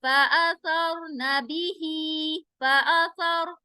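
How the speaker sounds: slow drawn-out tajweed chant; slow Quranic recitation. Shown as a demonstration. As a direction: recite each syllable slowly, melodically. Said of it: "रा साकिन से पहले जबर आ रहा है".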